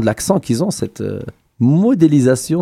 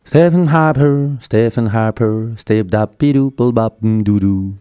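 lent, déclamé en rêverie; réciter comme un poème lyrique sur musique; poème improvisé; slower than usual. Pretend. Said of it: "je fais un petit poème improvisé". (poème déclamé lentement)

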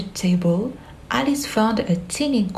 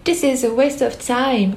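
higher, scolding tone; 5 semitones higher than usual. Acted. Alice to the Hatter's party, scolding higher. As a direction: tell them off. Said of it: "scolded Alice".

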